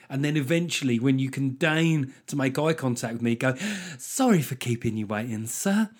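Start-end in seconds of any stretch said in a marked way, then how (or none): 4.0-5.9 mock sugary service apology with a rising sir; fake polite apology. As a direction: imitate the canteen lady's put-on politeness. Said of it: "that woman of your generation thing".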